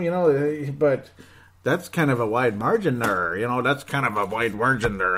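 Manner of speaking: Mike Yeo impression. Podcaster mimicking the Wild coach on Ryan Suter, a light coach voice. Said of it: "That's my Mike Yeo impression".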